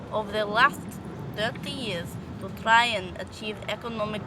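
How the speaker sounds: attempted Russian accent, read aloud. Shown as a demonstration. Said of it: "I have to do a Russian accent".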